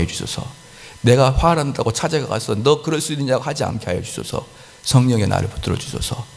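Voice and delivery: earnest, measured prayer. Shown as a demonstration. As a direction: plead with the Holy Spirit for patience. Models a prayer for patience. (기도하듯 간구하는 목소리로)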